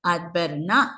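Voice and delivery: "not" lifted and stressed at the end; rising, emphasised final "not". Shown as a demonstration. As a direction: put the main beat on "not", tune rising. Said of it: "tiene la sílaba tónica".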